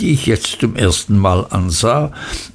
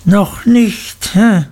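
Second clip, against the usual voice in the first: bullying schoolmaster, much higher mocking echo; Mister Creakle; 10 semitones higher, slower than usual. A narrator's reading. Schoolmaster echoes the frightened boy's answer, mocking. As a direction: throw it back high, ending on a sharp "hä?". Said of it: "wiederholte Mister Creakle".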